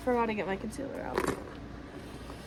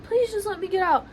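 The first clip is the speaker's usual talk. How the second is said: high mock plea; retold freaking out; 7 semitones higher, 3 dB louder than usual. Begging to be let out, mock freaking out. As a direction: beg in a high voice, lightly panicked. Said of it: "And I was freaking out".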